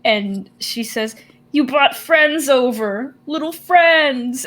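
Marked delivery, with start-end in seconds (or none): 1.5-4.4 high, slow, excited coo; delighted grandma. Acted. Grandma sees Orion brought friends over, excited and cooing. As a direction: draw it out with delight, pitched up. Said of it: "she's very excited to see all of you".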